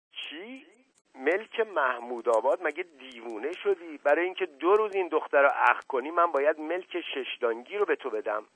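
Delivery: high-pitched, incredulous questioning; shocked disbelief. A narrator's reading. Patient reacting to an outrageous price, shocked disbelief. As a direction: start on a small high gasp of a question, then protest.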